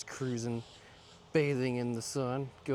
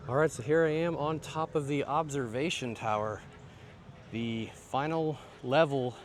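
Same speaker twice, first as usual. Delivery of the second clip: out of breath; 4 semitones higher, 3 dB louder than usual. Real, not acted. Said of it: "Sorry, I'm out of breath".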